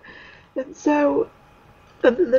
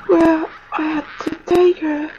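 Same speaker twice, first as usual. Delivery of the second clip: fighting back tears as it cracks; choked up, tearful; crying; 3 semitones higher, 3 dB louder than usual. Real, not acted. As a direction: voice breaking with real tears. Retelling giving up her dog.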